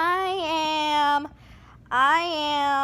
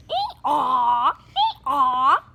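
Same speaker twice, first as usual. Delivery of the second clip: laughing, loudish hee-haw; donkey bray. Pretend. Child playing donkey, laughing bray.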